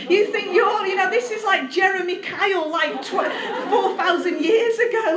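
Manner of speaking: laughing. Real, not acted. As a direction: chuckle as you compare it to Jeremy Kyle. Joking about Jeremy Kyle family drama.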